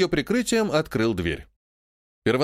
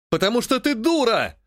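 yelling; 8 semitones higher than usual. A narrator's reading. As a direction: snap it out, raised and furious. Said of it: "орал Георгий".

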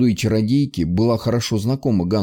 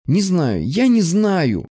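higher and slow, near sobbing; desperate; 7 semitones higher, much slower than usual. Acted. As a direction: break on the last words. Distraught girl.

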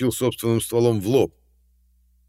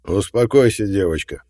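put-on talking down to a small child; condescending; 7 dB louder than usual. A narrator's reading. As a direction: soothe her like a toddler. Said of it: "Дед говорил так, словно его внучке было года три".

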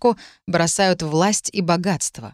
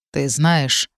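words forced out with effort; pushing the words out low; strained; 4 semitones lower than usual. Acted. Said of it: "с трудом проговорил Бэй".

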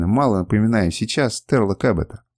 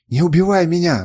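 high, loud plea for mercy; begging; 6 semitones higher, 4 dB louder than usual. A narrator's reading. Kernus begging the assassin, high loud plea. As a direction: beg for your life. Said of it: "взмолился он".

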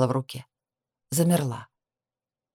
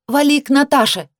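loud, much higher yell; shout; 10 semitones higher, 5 dB louder than usual. A narrator's reading. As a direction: yell it down the hallway. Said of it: "крикнула я".

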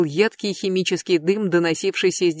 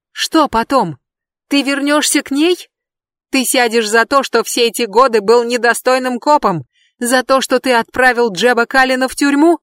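high, loud shriek; 5 semitones higher, 5 dB louder than usual. Acted. Brandi answers Adam, high loud shriek. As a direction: shriek the question back. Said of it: "завизжала она".

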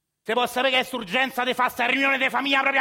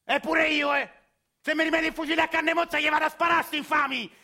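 angry rant. Acted. Grandpa ranting to his grandson about the squatters. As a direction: rant at full steam, wanting revenge.

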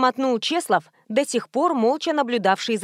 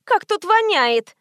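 whiny; 8 semitones higher, slower than usual. A narrator's reading. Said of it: "заныла Карц".

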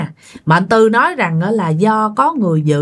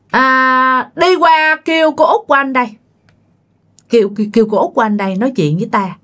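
commanding spirit speaking through the mother, pitched higher; stern spirit voice; 4 semitones higher, faster than usual. Retold or imitated. Possessing spirit orders the eldest daughter around: stern command. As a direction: bark the order to fetch the aunt. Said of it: "cái giọng của mẹ rất nghiêm".

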